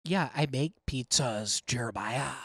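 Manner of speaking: smug, mildly devilish put-down; a touch of devilish condescension; sickening, devilish tone. Real, not acted. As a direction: needle them with a slightly sinister smugness. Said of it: "a tone that's coming off your voice".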